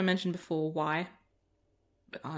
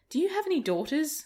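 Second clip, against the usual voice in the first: imitated child, much higher pitch; little girl; 9 semitones higher, 4 dB louder than usual. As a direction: ask like an inquisitive kid, pitched up. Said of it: "she went back to it and goes".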